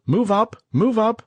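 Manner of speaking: high, loud urgent shout; yell. A narrator's reading. Lieutenant urging his men forward, loud yell. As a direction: shout them forward through the wire. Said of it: "Lieutenant Mike Dowling yelled".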